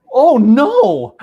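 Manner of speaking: loud, high, laughing oh no. Retold or imitated. Customer catching her own mistake, laughing. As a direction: burst out with a laughing groan.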